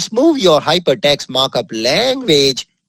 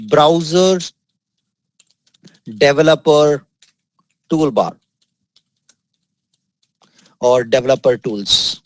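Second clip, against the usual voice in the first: long pauses between each word; name it piece by piece, as if dictating; word-by-word naming. Real, not acted. Teacher giving learners the tool's name, word by word.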